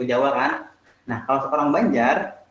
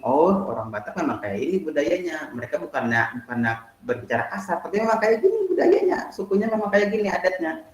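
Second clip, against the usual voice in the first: understanding listener; 4 semitones higher than usual. Retold or imitated.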